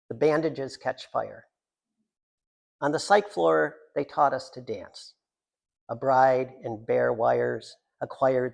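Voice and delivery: slow, measured poem delivery; deliberate reading of a short poem. Acted. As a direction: give each line its own weight. Reads a psych floor poem.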